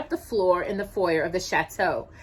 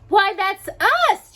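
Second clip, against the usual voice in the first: very high, louder, slow gush; eager; 14 semitones higher, 9 dB louder, slower than usual. A narrator's reading. Drusilla realizes she's invited, eager. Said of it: "Drusilla said eagerly".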